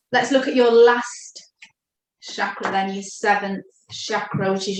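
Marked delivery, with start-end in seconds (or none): 0.1-2.9 breathy whispered aside, hushed. Acted. Healer hushes to a whisper moving on to the crown chakra. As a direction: drop to a whisper as if not to disturb.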